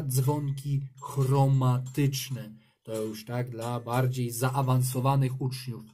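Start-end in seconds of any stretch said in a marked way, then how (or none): 0.0-2.5 slow, clear naming. Shown as a demonstration. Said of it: "Jest też inna nazwa".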